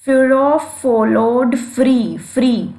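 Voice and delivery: very slow, drawn-out recitation of the verse; slow poem reading for the class. Shown as a demonstration. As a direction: stretch each word to let the alliteration ring. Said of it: "इसमें भी एफ".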